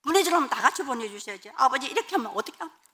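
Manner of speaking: pleading complaint climbing high and loud; desperate protest. Retold or imitated. Wife begging God to send the whole family, protesting desperately. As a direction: build to an agonised, acted outcry. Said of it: "제가 몸부림을 막 쳤어요".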